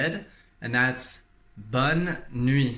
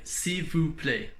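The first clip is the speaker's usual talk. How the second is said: slow demo; 3 semitones higher, slower than usual. Shown as a demonstration. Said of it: "you would say".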